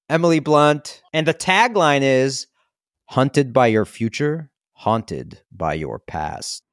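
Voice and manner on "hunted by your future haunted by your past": movie trailer voice. Acted. Reading the movie tagline dramatically.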